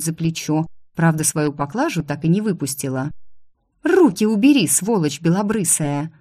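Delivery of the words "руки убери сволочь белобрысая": angry. Acted. Carried off, screaming at him.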